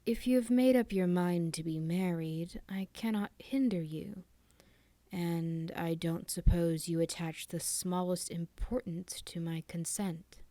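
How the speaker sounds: put-on old man speaking very slowly, trailing to a whisper. Dying father to his son, slow and cold. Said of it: "said Sir Hugh very slowly".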